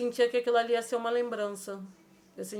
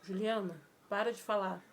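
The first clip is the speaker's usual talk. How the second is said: soft shushing, imitating a father; hushing; 6 dB quieter than usual. Father hushing his daughter in a dream, hushing softly. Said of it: "Ele falava assim, ele fazia assim".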